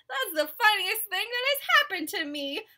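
high, loud amusement; tickled, high-pitched elephant; gleeful. Acted. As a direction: exclaim it on the edge of laughter. Elephant giggling into laughter.

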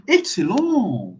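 drawn-out, admiring praise; praising someone. Shown as a demonstration. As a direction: praise a student, stretching each last syllable. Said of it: "utiliser ça aussi pour élogier quelqu'un". (éloge admiratif, syllabes finales allongées)

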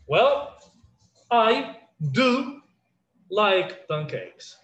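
"do" stressed, each word set apart slowly; emphatic DO. Shown as a demonstration. Teacher showing class a sentence to judge, emphatic. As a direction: lean on "do", spacing out "like pancakes". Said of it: "when you want to emphasize".

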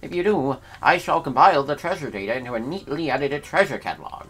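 lightly put-on posh appraiser accent; a hint of a fussy gentleman collector; mild invented accent for the treasure appraiser; made-up accent for Schnoz. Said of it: "what accent this even is for him".

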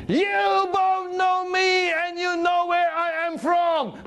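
Jesus lifting his voice high and slow to settle the crowd's question. Acted. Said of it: "he raised his voice higher and said".

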